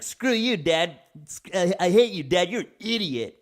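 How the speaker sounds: high, loud mock tantrum at dad; bratty kid yelling. Kid yelling insults at his dad, mock angry high shout. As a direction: spit it out like a furious brat.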